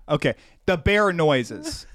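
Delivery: flat accusation. Retold or imitated. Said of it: "And he says".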